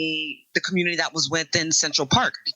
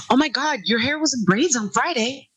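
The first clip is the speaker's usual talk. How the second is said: higher-pitched gushing disbelief; imitated astonished coworker; 5 semitones higher than usual. Woman imitating people reacting to her braids, astonished. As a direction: mimic a nosy, amazed acquaintance. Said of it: "I used to get".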